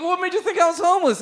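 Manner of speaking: high, loud laughing disbelief; incredulous question. Retold or imitated. Comedian asking the woman why, high incredulous laugh. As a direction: ask it half-laughing, stunned.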